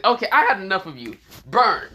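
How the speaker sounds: high, loud threat ending in a shout; snap, then fire off the attack call; angry outburst. Acted. Villain fed up and launching fire, angry shout.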